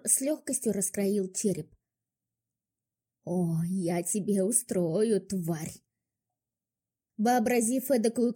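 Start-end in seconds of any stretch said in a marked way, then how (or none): 3.2-5.7 seething threat. Acted.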